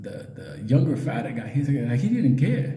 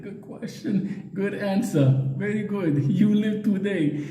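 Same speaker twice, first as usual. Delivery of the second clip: mock approval; 6 semitones higher, slower than usual. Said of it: "I was like".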